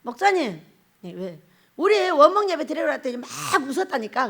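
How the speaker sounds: ordinary delivery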